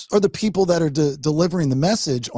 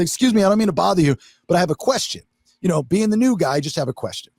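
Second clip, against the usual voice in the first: polite request; faster than usual. Retold or imitated. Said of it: "this is exactly how I said it".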